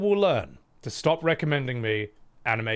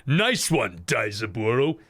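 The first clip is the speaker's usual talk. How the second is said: overacted anime dub; 4 semitones higher than usual. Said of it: "It's gonna be like".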